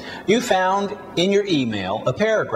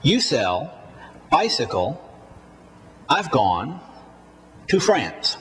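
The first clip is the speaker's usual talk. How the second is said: quick "You", "I've", "to", beats on "sell", "bicycle", "gone", "France"; stressed content words. Shown as a demonstration. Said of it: "Repeat after me".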